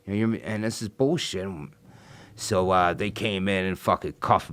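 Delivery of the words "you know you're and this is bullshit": angry outburst. Retold or imitated. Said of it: "I start freaking out".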